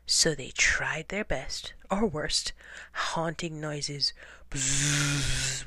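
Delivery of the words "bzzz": low buzzing insect noise. Acted. Penguins haunting hunters, low insect buzz. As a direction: buzz like a spooky bug. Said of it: "went the insect".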